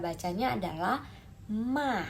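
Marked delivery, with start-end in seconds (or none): 1.5-2.0 MA falling from the top down; "ma" with a firm drop; falling fourth tone. Shown as a demonstration. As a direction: send MA straight downward. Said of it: "yang penting nadanya turun".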